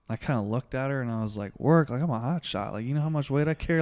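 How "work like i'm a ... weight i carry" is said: mock-incredulous, pitched up on the questions; indignant retort. Firefighter answers counselor's question about work, indignant. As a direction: scoff back as if insulted, lightly acted.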